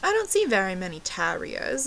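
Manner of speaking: put-on British accent. Fake Brit answering about terriers, mock British accent. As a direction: imitate yourself bluffing in fake British. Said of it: "ordered my drink in a British accent".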